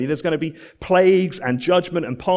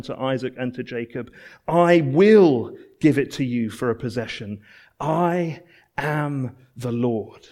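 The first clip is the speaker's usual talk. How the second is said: measured pulpit reading; solemn scripture reading; 2 semitones lower than usual. Acted. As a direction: read it like holy writ, each line landing. Reads the scripture passage aloud.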